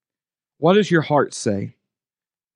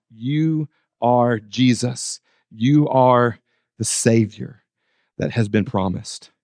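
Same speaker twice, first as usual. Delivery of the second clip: slow, heartfelt confession; 5 semitones lower, slower than usual. Retold or imitated.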